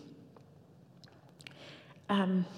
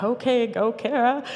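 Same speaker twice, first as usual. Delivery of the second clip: urgent cheering-on; 4 semitones higher, 4 dB louder than usual. Retold or imitated. Voicing girls praying in the back.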